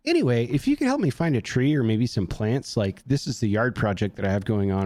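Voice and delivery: everyday polite request after an outburst; softened voice. Retold or imitated. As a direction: switch to a calmer, conversational voice. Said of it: "I immediately softened my voice".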